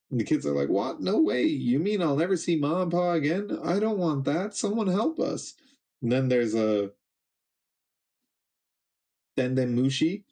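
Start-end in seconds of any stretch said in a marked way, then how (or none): 0.7-5.5 put-on much higher, frightened kid voices; panicked children. Captured kids realising they won't see home, high panicked wail. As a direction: cry out like scared little kids.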